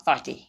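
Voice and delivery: thirty snapped off short, unlike a drawn-out thirteen; thirty said short and chopped; clipped short thirty. Shown as a demonstration. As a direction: cut thirty off crisply. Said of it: "thirtyで切ります".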